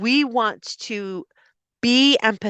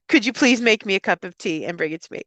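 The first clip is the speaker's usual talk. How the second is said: quick, direct polite request; faster than usual. Shown as a demonstration. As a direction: ask outright, at a brisk pace. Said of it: "Instead of".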